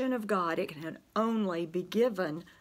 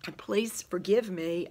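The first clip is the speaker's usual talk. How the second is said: strained whisper. Real, not acted. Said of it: "my struggle with my voice today".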